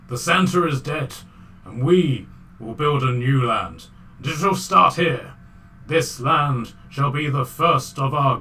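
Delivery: loud, slow rabble-rousing speech, bad Russian accent. Reindeer rallying comrades after Santa's fall, mock-Russian oratory. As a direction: declaim like a revolutionary in hammy Russian. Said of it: "in the worst Russian accent".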